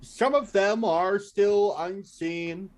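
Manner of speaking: slow, dramatic scene setting; game master narration. Acted.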